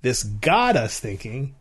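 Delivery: got pushed, slow; stress on GOT. Shown as a demonstration. Showing emphasis games to a co-host. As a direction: lean on the word got. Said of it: "the Q I people said".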